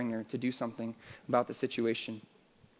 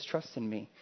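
tender trust in me; 4 semitones lower, 7 dB quieter than usual. Acted. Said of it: "He says".

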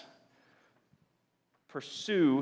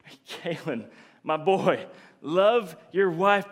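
fatherly coaxing. Acted. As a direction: voice a caring father gently counselling his son. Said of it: "No, God, God's saying".

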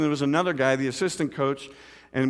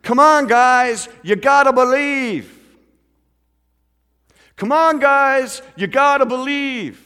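loud, high, drawn-out rallying shout; imitated coach's slow, booming catchphrase; Mister Wambach; 10 semitones higher, 8 dB louder, slower than usual. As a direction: rouse the team like a coach. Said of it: "And he would say this".

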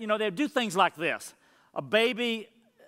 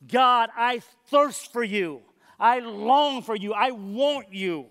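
slow, a touch louder, longing plea; yearning prayer; 3 semitones higher, 4 dB louder, slower than usual. Acted. Preacher voicing the psalmist's plea to God, yearning. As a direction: pray it as if thirsting.

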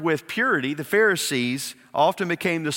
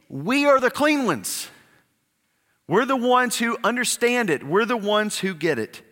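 mock smug Pharisee, pitched higher; lightly mock their superior tone, higher up; smug self-righteous; 7 semitones higher than usual.

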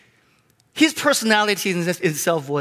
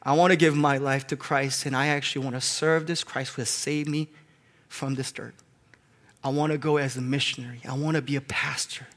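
put-on tearful teen's vow; 4 semitones lower, 6 dB quieter than usual. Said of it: "He was crying".

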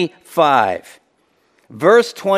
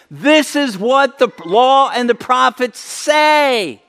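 voicing Jesus; 8 semitones higher, slower than usual. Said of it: "Jesus voiced".

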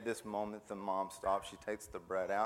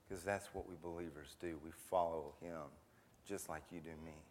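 softer and softer, lower, gentle fatherly counsel; tender fatherly advice; 4 semitones lower, 4 dB quieter than usual. Acted. Father quietly urging his son to follow God, tender and hushed. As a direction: let it sink to a hush as you bless your son.

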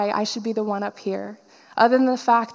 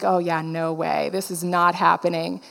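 dismissive refusal; 6 semitones lower than usual. Retold or imitated. Inner refusal, retold.

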